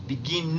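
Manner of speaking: "begin" mispronounced with "ee" in the last syllable; begin with long I. Shown as a demonstration. Teacher rejects the wrong version, "begin" said as bi-GEEN. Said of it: "porque es una sola I".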